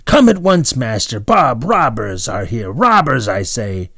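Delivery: frantic alarm call upstairs; loud shout. A narrator's reading. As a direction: call out as loud as she can. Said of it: "loudly as she could".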